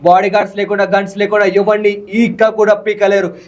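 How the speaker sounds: fiery hero dialogue performed for the interviewer; hero punch dialogue. Shown as a demonstration. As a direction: spit out the challenge like a mass film hero. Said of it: "ఇప్పుడు కూర్చొని చెప్పాలంటే".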